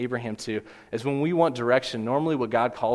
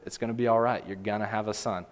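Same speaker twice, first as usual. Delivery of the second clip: reassuring. Acted. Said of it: "all God does is reassure her".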